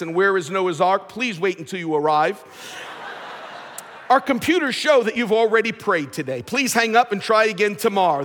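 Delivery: automated phone menu announcer. Pretend. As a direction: read it like a recorded phone menu. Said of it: "Imagine praying and hearing the following".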